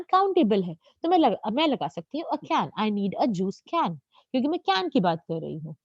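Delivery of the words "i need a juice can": very slow, word-by-word example sentence; slow example read. Shown as a demonstration. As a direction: spell it out slowly for the class. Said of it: "teacher reads example sentence". (बहुत धीरे-धीरे उदाहरण वाक्य पढ़ना)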